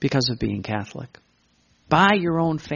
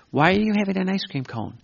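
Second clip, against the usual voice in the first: asking voice; 6 semitones higher, faster than usual. Acted. Acted question and answer.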